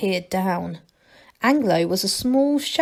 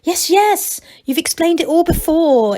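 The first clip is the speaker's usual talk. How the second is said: higher, impatient interruption; 8 semitones higher, 5 dB louder than usual. A narrator's reading. Angelo cutting off Masklin's repeated instructions, impatient. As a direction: brush him off, you've heard it. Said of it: "interrupted Angelo impatiently".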